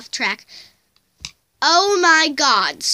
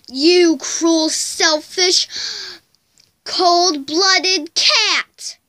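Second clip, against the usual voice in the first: angry insult; 3 semitones higher, much slower than usual. Acted. Insulting the biting cat.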